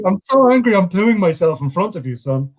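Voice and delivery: hammed-up angry father, high then settling; mock fury, starting big and easing off; mock angry dad. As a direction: play a dad straining with comic rage. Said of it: "when he'd get angry".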